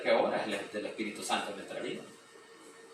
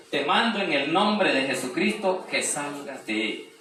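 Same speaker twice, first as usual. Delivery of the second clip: commanding rebuke; 4 semitones higher, 6 dB louder than usual. Acted. Paul commanding the spirit out.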